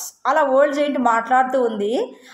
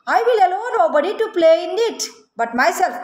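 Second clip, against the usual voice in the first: much higher, slow giant voice; selfish giant; 5 semitones higher, much slower than usual. Acted. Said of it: "ఏమంటుంది తెలుసా?". (స్వార్థపరుడైన రాక్షసుడు, ఎత్తైన నెమ్మది గొంతు)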